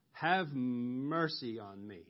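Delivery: slow, drawn-out pleading call; retold plea, stretching the words; crying out. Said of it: "And he cries out".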